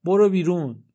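loud, high shout to get out; yelling at the intruder to leave. Acted. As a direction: bark him out of the room. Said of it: "داد زد".

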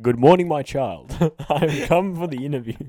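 Obama. Acted. President greeting the host in bed, Obama impression. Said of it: "That's not a bad Obama impression".

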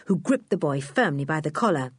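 usual speaking voice

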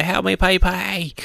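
high pleading plea; lightly voiced girl pleading for help; voicing Nami. Retelling manga, voicing Nami.

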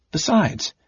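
high, wistful lift; sighing. A narrator's reading. The kinder muses about going along, sighing. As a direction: let it out as a high sigh. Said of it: "the Kinder sighed".

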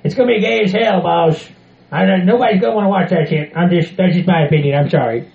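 a lightly voiced rowdy Southern hillbilly; hint of a brash country bumpkin. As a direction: play the crude hillbilly guest. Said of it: "Mister Hillbilly Bob Joe".

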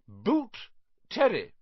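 high, loud roll call; calling out a name. Acted. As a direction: call the pupil up to the stool. Teacher calls out a name.

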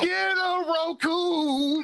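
very slow, high and loud slogan. Acted. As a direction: belt it like a TV commercial. Hammy ad slogan, drawn out.

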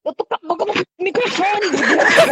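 annoyed outburst. Real, not acted. Annoyed at being told off.

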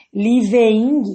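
living said with a clear ING ending. Shown as a demonstration. Teacher modelling living for students. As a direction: show how living sounds. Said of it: "Vai ficar living".

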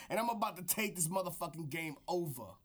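gruff wrestling trash talk aimed at the skies; over-the-top wrestling promo; wrestler promo voice. Acted. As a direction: hype man cutting a promo. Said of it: "This is my wrestler voice".

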